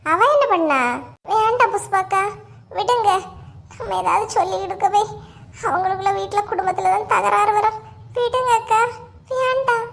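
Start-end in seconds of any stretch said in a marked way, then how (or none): 1.3-9.9 plaintive pretend protest, pitch climbing; put-on distress. Begging Pushpa to drop it, put-on distress. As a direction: feign tearful reluctance. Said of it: "இது உலக மகா நடிப்புடா சாமி".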